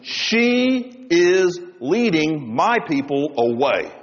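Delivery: slow, solemn voice of Jesus. Acted. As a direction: deliver it slow like a judge's verdict. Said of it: "in that voice, and in that presence".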